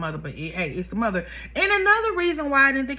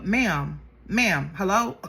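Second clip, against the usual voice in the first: sassy ma'am; 3 semitones lower, slower than usual. Retold or imitated. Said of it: "I would've told her".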